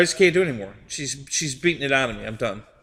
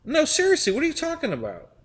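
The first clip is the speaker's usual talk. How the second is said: higher, baffled pressing retort; mock insistence; 13 semitones higher than usual. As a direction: push her, half-laughing, for an answer. Retold insisting reply.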